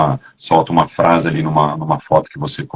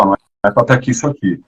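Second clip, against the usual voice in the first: sharp tone; 4 semitones higher, faster than usual. Shown as a demonstration. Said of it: "Mas é o jeito que eu falo".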